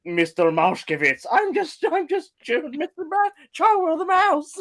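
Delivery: high, slow mock Eastern European nanny voice. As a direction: impersonate Stewie's Eastern European nanny from Family Guy. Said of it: "Eastern European nanny that Stewie has".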